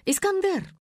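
calling out. Acted. Faina calls out to Iskander.

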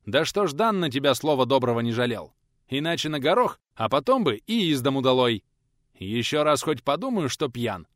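put-on loud, threatening lecture to a drunk lad; a gruff elder laying down punishments; stern old teacher scolding.

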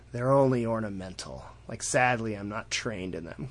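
soft, sinking imitation of regret; understated mock wistfulness; mildly sad. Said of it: "he sounds kinda sad about it".

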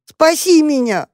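high, slow, wailing cry for help; desperate plea. Acted. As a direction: beg to be saved. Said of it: "раздалось в парнике".

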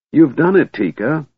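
a delighted kender praising Tika; jubilant. A narrator's reading. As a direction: cheer her on. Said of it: "he shouted jubilantly".

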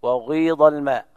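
وغيض with a brief u-rounding before the i; touch a rounded u at the start of وغيض; ishmam on وغيض. Shown as a demonstration. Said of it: "هكذا".

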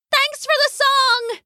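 very high, cheerful fairy voice; a tiny fairy, bright thanks. Acted. The fairies' note thanks Loosemore, high and cheerful. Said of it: "it said".

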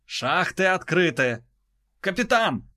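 high urgent call; urgent report. Acted. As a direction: call out to the captain.

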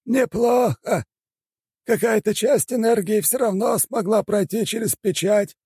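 put-on a strange high old shaman weighing the spell; old shaman elder. A narrator's reading.

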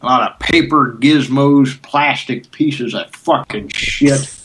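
slow grumbling grouch; grumpy old man voice. Pretend. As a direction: drag each curse out slowly.

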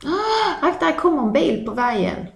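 a high yelp, then a quick warning; urgent warning. Acted. Someone warning others of a car on the road. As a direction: shout the warning fast, a car is coming.

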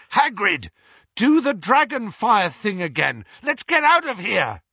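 loud, high order, climbing; urgent shout. A narrator's reading. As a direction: shout it to the driver, pressing to escape. Harry shouts to Hagrid to flee.

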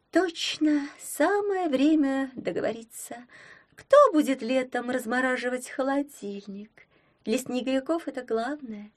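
high mocking mermaid, gurgling; bubbling mermaid voice. A narrator's reading. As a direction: burble it like a sulky mermaid. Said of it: "пробулькала она". (булькающий голос русалки)

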